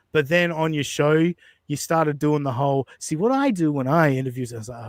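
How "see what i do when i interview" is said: mock self-important interviewer; douchey mimicry. Host imitates Dan bragging about interviewing, douchey mimicry. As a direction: imitate someone cocky about their own technique. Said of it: "that sounded really douchey".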